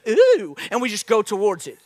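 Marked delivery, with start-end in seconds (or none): 0.1-0.6 mock feelings-led person. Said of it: "Not a direction of a compass".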